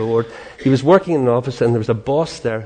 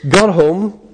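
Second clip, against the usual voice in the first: ordinary delivery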